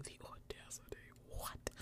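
whispered, playful outrage; hushed mock indignation; mock-scandalized whisper. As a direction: whisper it as if shocked by the nerve. Mock outrage at networks joining in.

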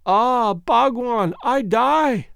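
put-on slow, high, breathless gasp of a dying girl. Dying Foulata gasping to her lover Bhagwan. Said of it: "gasped the beautiful creature".

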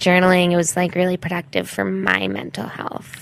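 put-on self-absorbed gap-year girl; traveling white girl. Traveling white girl describing her journaling, self-absorbed. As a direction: play an oblivious traveler sharing her journey. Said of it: "is this a traveling white girl?".

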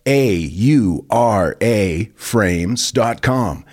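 slow, deliberate letters; slow spelled out. Acted. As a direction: spell A U R A slowly. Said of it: "ad read, spelled slowly".

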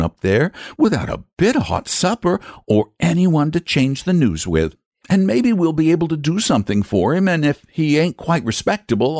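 high-pitched, kindly country wife; proud, sympathetic rustic mother; sensible mother. Acted. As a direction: reason as a fond, practical mother.

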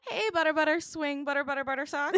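high, giggly chant of the name; laughing sing-song. Pretend. Teasing the couple, high giggly chant. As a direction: giggle through the pet name.

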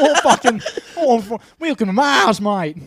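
put-on loud, high, ridiculous Martian accent; made-up Martian accent. Mars settler welcoming newcomers, loud silly Martian accent. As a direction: belt out an absurd Martian accent. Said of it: "that's gonna be the Martian accent".

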